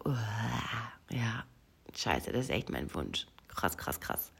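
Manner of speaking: low, soft awed self-talk; hushed realization. Retold or imitated. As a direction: murmur it to yourself, stunned. Acting out her realization afterwards.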